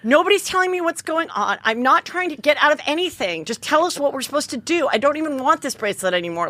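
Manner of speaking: high-pitched, retold pleading; distraught outburst. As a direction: protest desperately, acting out the upset. Retold tearful outburst to the officer.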